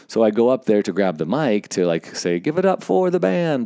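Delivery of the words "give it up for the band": much higher announcer call; mock-announce to a crowd, pitched way up; emcee hype. Host grabs the mic to applaud band, hyped announcing.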